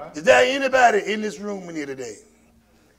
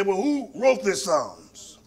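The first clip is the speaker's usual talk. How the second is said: hushed, breathy aside; whispered aside; 5 dB quieter, slower than usual. Retold or imitated. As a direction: whisper the doubter's question. Skeptic's question quoted in sermon.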